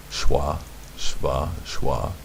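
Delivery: "shwa" with a w, "shva" with a v, then "shwa"; alternate pronunciations. Shown as a demonstration. Teacher offers both names of the vowel sign, alternate pronunciations. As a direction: list "shwa, shva, shwa" as separate variants. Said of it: "This shva right here".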